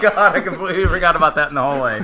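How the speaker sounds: bursting out laughing, high and loud. Real, not acted. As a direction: talk through real laughter. Remembering a funny film scene.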